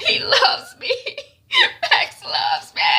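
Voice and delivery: very high, tearful mock wail; hammed-up crying. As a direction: sob the words in exaggerated heartbreak. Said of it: "Shaliwa is crying".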